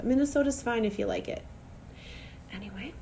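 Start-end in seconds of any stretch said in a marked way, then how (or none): 2.5-2.9 soft whisper to move on; shaking off the rant in a whisper; whispered anyway. Real, not acted. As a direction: drop it to a whisper. Closing the rant.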